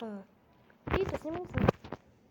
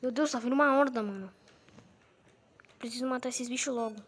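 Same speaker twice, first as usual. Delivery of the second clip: high, loud panicked shouting; panicking gamer; 4 semitones higher, 7 dB louder than usual. Real, not acted. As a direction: scream for help as the horde closes in. Zombie horde chasing him. (gritos de pânico agudos)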